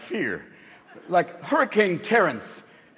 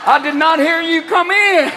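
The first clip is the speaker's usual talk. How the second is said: Southern redneck; 8 semitones higher, 3 dB louder than usual. Acted. Gas station locals calling Bobby over to mock the hybrid, Southern. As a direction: holler like a small-town Southern gas station guy.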